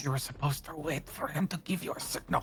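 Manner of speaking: soft, hushed whisper. Voicing a character nudging another during a meeting: whispering. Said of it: "nudges Francois and whispers".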